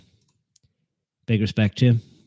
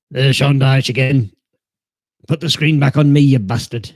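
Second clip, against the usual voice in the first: louder, higher mock outrage at the TV; mock angry yell; 5 semitones higher, 8 dB louder than usual. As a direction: yell at the screen in jest. Mock rage at TV broadcast.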